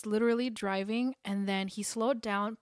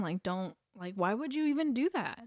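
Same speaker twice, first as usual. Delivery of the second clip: mock-sarcastic comeback, louder at the end; sarcastic retort; 4 semitones higher, 4 dB louder than usual. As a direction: throw the insult back at the catcallers. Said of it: "with the most sarcastic tone".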